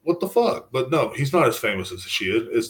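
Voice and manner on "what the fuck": higher, mildly indignant rant; pissed off. Retold or imitated. Imagining himself as a singer, mock indignant and higher. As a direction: play the singer's wounded outrage. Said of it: "I'd be like".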